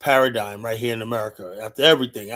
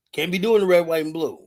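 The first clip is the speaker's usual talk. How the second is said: emphatic; 4 semitones higher than usual. Real, not acted. Emphatic refusal repeated.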